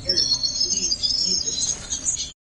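slow, drawn-out begging; pleading. Real, not acted. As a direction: beg slowly, almost whining.

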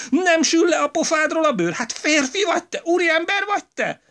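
high, loud, relentless tirade; outraged wife berating her husband, high and loud; furious scolding wife. A narrator's reading. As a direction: tear into him without a breath.

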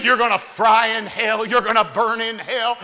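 rolling, rhythmic hellfire sermon, lightly done; mock hellfire preaching. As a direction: preach hell at them with building force.

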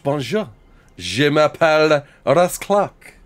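lightly put-on French accent, drawn out; slow, playful go at French; mock French accent. Streamer pretends to be French for viewers, mock French accent. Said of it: "you'll find Ross is French".

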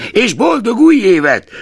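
high, loud parting shout; cheerful call. A narrator's reading. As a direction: call it out cheerily across the room. Nephew calls out leaving.

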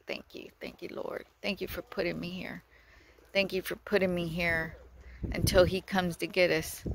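soft, breathy-quiet thanks to the Lord; hushed prayer of thanks. Retold or imitated. Telling God thanks, softly murmured prayer.

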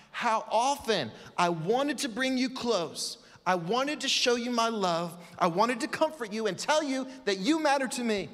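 reach out with love; tender plea. Acted. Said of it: "this is what made Jesus cry".

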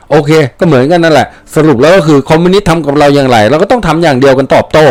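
ordinary delivery, nothing marked

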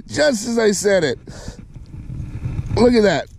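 high, delighted marvelling; real excited disbelief. Real, not acted. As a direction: pitch up, thrilled with the catch. Marvelling at the catch.

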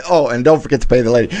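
quick mocking quote of "don't forget to pay the lady"; imitating the sign-off. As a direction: toss off the line fast, mocking. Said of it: "I don't know how to".

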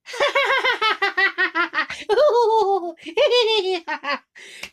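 long, high, loud laugh; cow laughter. Shown as a demonstration. Vlogger showing a famous laugh, long and high. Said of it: "cow laughter goes".

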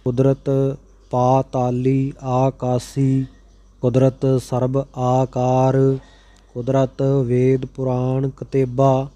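measured, even chanting of sacred verse; scripture recitation. Acted. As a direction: recite each line steadily, phrase by phrase. Recites scripture verses between explanations.

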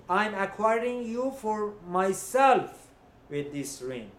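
slow, deliberate declaration; said out loud. Shown as a demonstration. Rabbi modeling the groom's words to the bride, slow and deliberate. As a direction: state it slowly so the bride hears each word. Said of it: "he needs to say it out loud".

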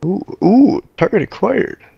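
high, eager spotting an enemy; gleeful target lock-on; excited. Real, not acted.

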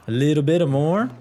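light put-on Italian lilt; mock Italian accent. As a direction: try a hammy Italian accent. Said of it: "offensive Italian accent".

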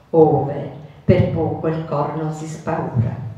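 solemn, swelling recitation of a poem; theatrical swelling poetry reading. Acted. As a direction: declaim the verses with rising feeling. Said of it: "a recitare una poesia, L'infinito".

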